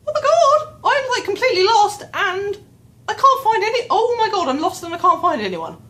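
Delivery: loud, very high mock-panic wail; freaked out. Lost in a building with no one around, acted-out freak-out. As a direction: replay a panicked outburst at full pitch. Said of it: "freaked out, freaked out".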